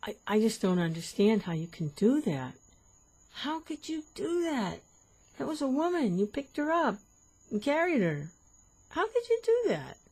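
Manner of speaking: high, rising outraged scolding; indignant monk. Acted. Monk starts in again.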